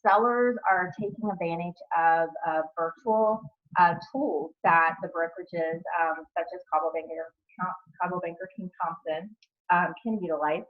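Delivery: talking around a retainer in the mouth; words tripped up by a retainer; wearing a retainer. Real, not acted. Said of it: "I have my retainers in today".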